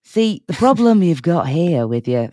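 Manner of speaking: a hint of a Liverpudlian judge voice; mock-Scouse critique, half-hearted; Paul Hollywood. Host imitates the judge critiquing a bake, a light Liverpudlian accent. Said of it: "That's my impression of Paul Hollywood".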